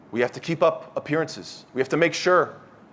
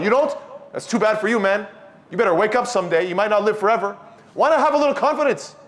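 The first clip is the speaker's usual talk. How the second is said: mildly mocking, pitched up higher; chiding; 4 semitones higher than usual. Believer lightly scolding his coworker. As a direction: tease him for not praying.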